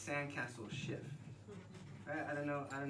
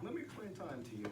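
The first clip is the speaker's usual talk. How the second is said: mock TED talk; 3 semitones higher, 4 dB quieter, faster than usual. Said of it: "it's not gonna be like some weird ted Talk".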